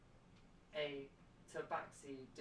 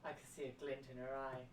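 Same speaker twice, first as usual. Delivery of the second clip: noir detective. Pretend. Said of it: "I wrote it in a noir style".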